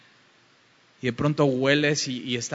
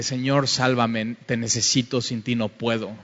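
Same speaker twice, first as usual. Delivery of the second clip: humble quiet prayer. Acted. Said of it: "caer de rodillas y decirle".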